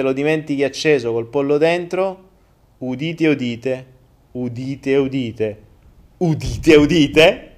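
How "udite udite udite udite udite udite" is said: a light town crier proclaiming "udite, udite". Acted. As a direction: announce "udite" like a herald in the square. Mock proclamation "hear ye.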